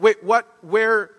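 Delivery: high-pitched, incredulous string of questions; stuttering excitement. Acted. Astonished Naomi firing questions at Ruth, stuttering with excitement. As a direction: sputter questions in rising, squeaky disbelief. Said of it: "like this stuttering of excitement".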